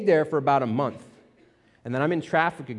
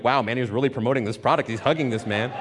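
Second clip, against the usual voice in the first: put-on imagined girlfriend's thoughts; 2 semitones lower, faster than usual. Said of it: "probably wondering, like".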